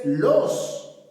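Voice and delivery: los miércoles drawn out very slowly; slow model of los miércoles; slow demo. Shown as a demonstration. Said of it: "No, es el miércoles".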